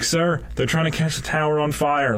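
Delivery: worried soldier. Retold or imitated. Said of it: "soldiers in the tower talking to the captain".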